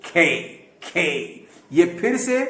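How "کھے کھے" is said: "کھے" with breath after the k; slow model "کھے", aspirated and drawn out; aspirated letter K. Shown as a demonstration. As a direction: stretch "کھے" into a final ee. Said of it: "جس کا تلفظ ہے".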